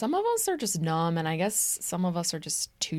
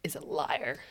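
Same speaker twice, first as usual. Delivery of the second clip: whisper; 3 semitones lower, 6 dB quieter than usual. Pretend. Whispered punchline.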